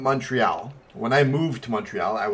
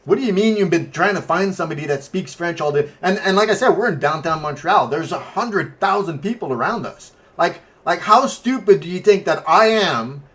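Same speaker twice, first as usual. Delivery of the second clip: raised, exasperated retelling; indignant disbelief; 4 semitones higher, 4 dB louder than usual. Retold or imitated. Retelling his reply to a begging cyclist, indignant. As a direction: argue it louder and higher as you go.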